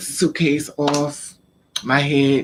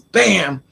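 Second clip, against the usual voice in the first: higher, punched "bam"; imitated slam; 4 semitones higher, 3 dB louder than usual. Telling how father slammed me, imitated bang. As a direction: punch out the impact noise.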